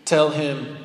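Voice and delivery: lightly imitated Kiwi accent, ominous message; mock-grave delivery with a hint of New Zealand accent. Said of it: "in his Kiwi accent".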